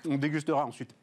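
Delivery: talking with a mouth full of meringue; chewing sticky meringue. Real, not acted. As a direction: speak through a sticky mouthful. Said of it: "c'est que ça colle aux dents".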